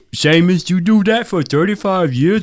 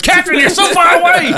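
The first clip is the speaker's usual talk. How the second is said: tiny creature voice; 3 dB louder than usual. Acted. Calling distant captain.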